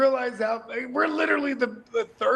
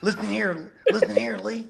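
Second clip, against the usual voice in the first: Texas drawl; 3 semitones lower than usual. Shown as a demonstration. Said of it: "See, I can just turn it on".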